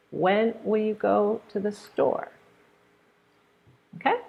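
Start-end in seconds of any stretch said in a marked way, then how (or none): 0.1-2.3 high onset on "When", then down on "store"; higher starting tone. Shown as a demonstration. Teacher repeating the WH question, higher start on "When". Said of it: "starting a little bit higher".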